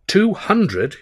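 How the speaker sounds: high disbelieving echo of Two hundred; jaw-dropped echo; astonished. Acted. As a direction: gape and repeat it. Stan's mouth dropped open.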